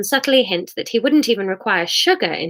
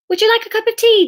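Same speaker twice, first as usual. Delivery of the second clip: Sarah voice; 14 semitones higher, 5 dB louder, faster than usual. Acted. Sarah offers Jesus tea.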